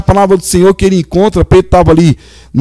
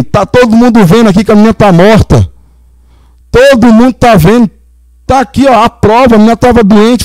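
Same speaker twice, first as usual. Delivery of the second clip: higher and pushier, scoffing at a fool; scornful mocking mourner; 4 semitones higher than usual. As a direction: mourner ridiculing Jesus at the girl's house, scornful. Mourners mock Jesus, sceptical.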